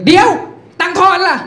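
high, sharp mock-cop call; policeman calling back. Policeman calling the rider back for change, high call. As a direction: stop him with a pointed demand.

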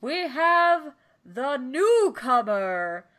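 slow boxing ring announcer. Pretend. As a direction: drag it out like a fight announcer.

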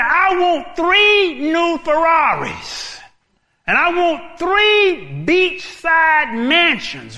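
slow, loud, high list of wishes; greedy man shouting out his dream list; greedy demands. Acted. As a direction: savour every big wish.

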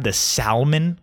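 salmon with the L sounded, SAL-mun; mispronounced. Retold or imitated. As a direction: order the salmon, wrongly pronouncing its L. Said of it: "and you say".

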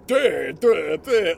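blurted loud mock chant; loud mocking duh duh. Mimicking teen girls' chatter out loud at the counter, loud mock chant. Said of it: "I made this sound".

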